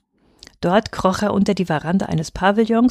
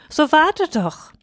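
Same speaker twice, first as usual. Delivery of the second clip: slow, much higher call; pleading call; 8 semitones higher, slower than usual. A narrator's reading. Taro begs the runaway bride to wait, slow high call. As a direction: stretch it out after her. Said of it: "rief Taro".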